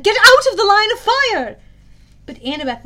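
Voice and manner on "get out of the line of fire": high, loud urgent order; commanding shout. A narrator's reading. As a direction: yell it across the battlefield. Zoe ordering in battle.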